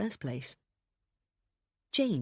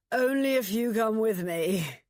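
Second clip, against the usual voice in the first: laughing; 7 semitones higher, 6 dB louder, slower than usual. A narrator's reading. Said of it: "Adam laughed".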